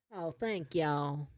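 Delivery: slow, put-on Southern accent; fake Southern accent. Singer thanks the crowd, fake Southern accent. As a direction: draw it out in a mock Southern accent. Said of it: "She's doing a fake Southern accent".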